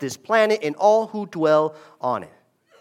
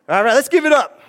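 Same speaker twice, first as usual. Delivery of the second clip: cheering on; 7 semitones higher, 7 dB louder than usual. Real, not acted. Cheering on baptized students.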